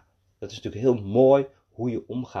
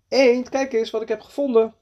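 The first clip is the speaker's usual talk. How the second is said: high, raised storybook call; excited calling out; 12 semitones higher, 5 dB louder than usual. A narrator's reading. Little man calling to the duck, excited call. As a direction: call out eagerly to show off a find. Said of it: "riep klein mannetje".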